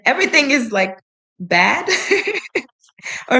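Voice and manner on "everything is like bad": grandma laying down the law, half-acted; quoting an angry grandma; retold angry grandma. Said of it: "dijo con enfado y fuerza".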